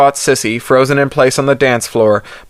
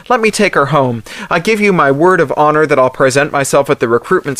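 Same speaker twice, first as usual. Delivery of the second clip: higher, urgent begging; desperate pleading; 4 semitones higher than usual. Acted. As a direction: plead fast, on edge. Pleading for his cousin.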